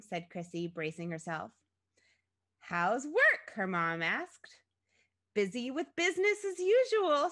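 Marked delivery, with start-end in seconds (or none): 2.6-3.5 high, loud motherly question; chirpy mother. A narrator's reading. Gushing mother voiced in story. 5.3-7.3 high, loud forced brightness; strained cheer. A narrator's reading. Daughter's strained reply to mother.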